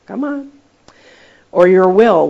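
ordinary talk

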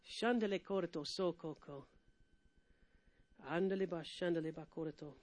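soft, low murmured tongues prayer; hushed glossolalia; speaking in tongues. Real, not acted. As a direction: drift into a quiet prayer in tongues. Preacher prays in tongues.

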